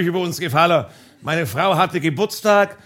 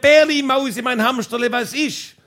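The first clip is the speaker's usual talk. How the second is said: wife yelling pet names back up to the roof; wife calling back; 5 semitones higher than usual. Retold or imitated. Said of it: "sie hat zurückgeschrien".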